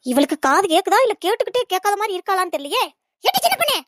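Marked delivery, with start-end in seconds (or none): 3.2-3.8 calling out. Acted. Mother-in-law yelling for the daughter-in-law again, high and sharp. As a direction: shout her name up high, out of patience.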